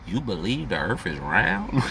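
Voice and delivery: slow, deliberate counter-question; slow pointed comeback. Retold or imitated. Answering the flat-earth question with a slow pointed retort. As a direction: lean on each word to turn it around. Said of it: "I'ma say".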